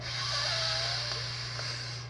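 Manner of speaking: long breathy exhale; demo deep breath. Shown as a demonstration. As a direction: show the release with one slow breath. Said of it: "Try it".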